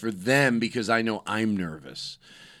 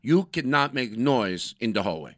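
scolding guard. Acted. Acted hotel guard scolding.

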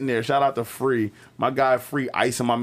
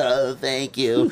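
injured friend; slower than usual. Retold or imitated. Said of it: "He's like".

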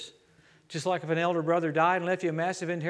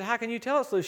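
high, wondering question; curious question; 6 semitones higher than usual. Retold or imitated. Preacher asking how she can feel the screw, amazed. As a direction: ask in honest amazement.

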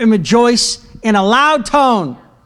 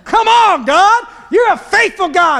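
high, ringing praise shout; voice of triumph; 10 semitones higher than usual. Shown as a demonstration. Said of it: "trying to model this voice of triumph".

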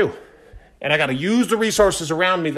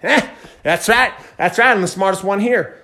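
smug; 3 semitones higher than usual. Retold or imitated. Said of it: "Pat ourselves on the back and we're like".

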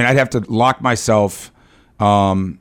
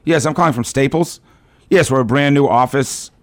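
bright, higher phone sales pitch; polite cold-call telemarketer; 4 semitones higher than usual. Retold or imitated. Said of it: "Staples has a telemarketing".

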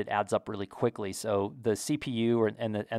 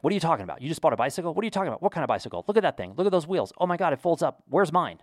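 excited wife; 6 semitones higher, much faster than usual. Retold or imitated. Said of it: "my wife, being my wife, was like".

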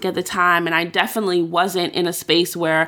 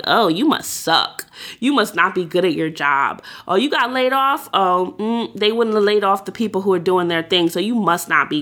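judgmental tone. Retold or imitated. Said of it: "connotation around being fired".

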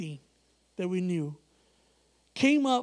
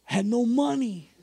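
whisper; 3 semitones higher, 3 dB louder than usual. Real, not acted.

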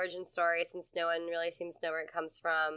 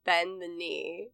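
Daenerys command; slower than usual. Pretend. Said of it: "That definitely sounds very Daenerys".

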